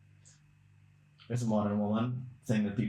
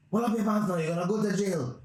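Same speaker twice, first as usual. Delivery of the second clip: stern cop; 8 semitones higher, 3 dB louder than usual. Retold or imitated. Police officer orders suspect.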